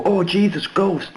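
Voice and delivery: high-pitched mock alarm; mock ghost scare. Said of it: "we didn't try and go".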